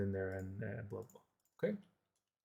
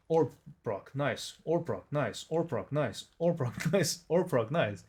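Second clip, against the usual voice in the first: excited; 3 semitones higher, 4 dB louder than usual. Real, not acted. Gasps at lucky procs.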